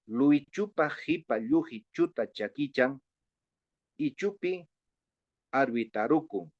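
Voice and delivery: measured recital with pauses before the last words; tongue-twister reading. Shown as a demonstration. Teacher introduces a reading for colleagues, tongue-twister reading. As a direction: read out the tongue twister in separate phrases. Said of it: "de hablar esta trabalengua".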